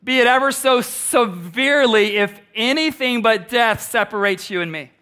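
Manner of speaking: grave earnest vow; solemn vow. Acted. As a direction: lay each word down like a sacred promise. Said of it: "She says".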